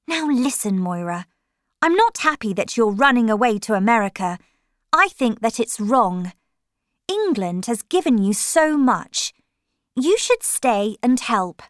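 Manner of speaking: put-on firm grown-up telling a child off; Linda scolding. Linda lectures Moira about leaving England, firm and quick.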